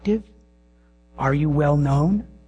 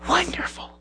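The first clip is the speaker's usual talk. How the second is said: put-on much higher, delighted child's exclaim; excited little girl. Little daughter at bedtime exclaiming, high and delighted. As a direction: squeal it like a thrilled toddler. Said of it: "She would exclaim".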